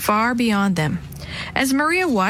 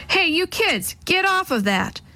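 mock yell; 9 semitones higher than usual. A narrator's reading. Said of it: "the big man yelled".

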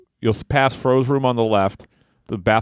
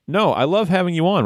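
nicely; 8 semitones higher than usual. Acted. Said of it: "replied Matt nicely".

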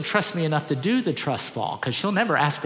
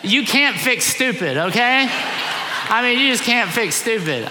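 slow, higher, louder mock despair; amused exasperation; 5 semitones higher, 3 dB louder, slower than usual. Real, not acted. Pastor reacting to a fail video, amused disbelief. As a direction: laugh it off in disbelief.

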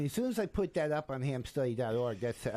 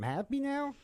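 sarcastic; 12 semitones higher than usual. Real, not acted. Sarcastic reply to daughter's nagging.

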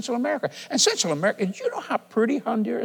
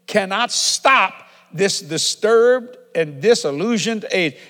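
slow dictation; 3 dB louder, slower than usual. Real, not acted. Preacher dictates a line to write down.

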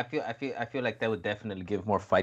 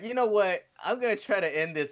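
mock pumped self-talk; 10 semitones higher than usual. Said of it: "I was like".

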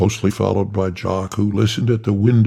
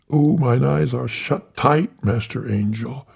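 high, eager obedient reply; high fawning reverend voice; Tiny Tillman voice; 4 semitones higher than usual. Acted. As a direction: pitch it up like the little reverend. Tiny obeying the angel.

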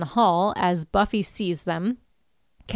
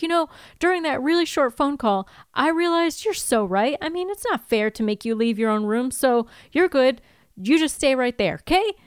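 higher-pitched, over-agreeable voice; imitated nervous placating; 4 semitones higher than usual. Willow placating Kathy before bolting, imitated over-agreeable. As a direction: humour them with put-on agreeableness.

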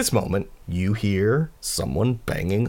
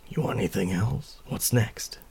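close confiding; 6 dB quieter than usual. Acted. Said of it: "kind of leans in close".

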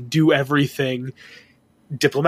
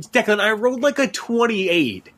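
excited boast; 7 semitones higher than usual. Real, not acted. Boasting about the dice roll.

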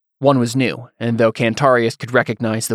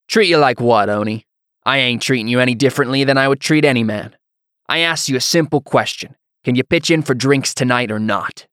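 rough-spoken hothead picking a quarrel; blustering hothead worker; 2 semitones higher, 3 dB louder than usual. Acted. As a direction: needle the newcomer like a cocky bully. Narrator voices the hothead worker.

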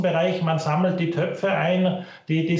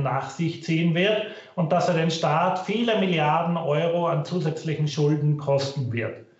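low quality stream. Real, not acted. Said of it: "Bitte entschuldigen Sie die Tonqualität".

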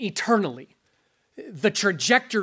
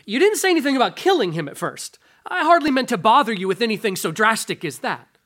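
flustered ghost; 3 semitones higher, 5 dB louder, faster than usual. Acted. Ghost backpedals in reading.

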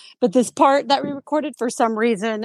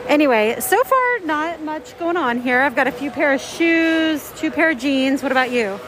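muffled through mask; 3 semitones higher than usual. Real, not acted. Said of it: "this probably sounds horrible".

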